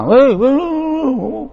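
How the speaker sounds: high mock shouting "weh, weh"; imitating a high shout; calling out. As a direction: yell across the river like a rowdy man. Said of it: "teriak-teriak".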